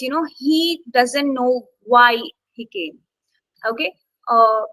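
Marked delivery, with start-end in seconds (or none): 0.4-3.0 slow sentence with WHY held out; stress on WHY. Shown as a demonstration. Teacher giving an adverb example, stress on WHY. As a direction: lean on WHY, then ease off. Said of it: "adverbs such as".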